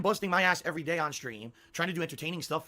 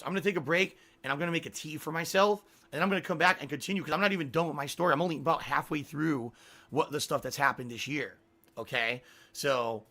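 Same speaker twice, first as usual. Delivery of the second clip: hoarse, tired voice; worn-out hoarse voice. Real, not acted. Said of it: "my voice is hoarse".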